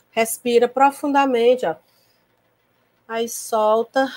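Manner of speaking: slow, calm breathing instructions, drawn out on the release; calm breathing guide. Shown as a demonstration. Teacher guiding an anxious pupil's breathing, calm and slow. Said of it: "A gente usa umas técnicas de respirar".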